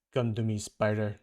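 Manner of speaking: a lightly voiced menacing hunter; a hint of Kraven beckoning; Kraven's voice. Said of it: "That's Craven's voice".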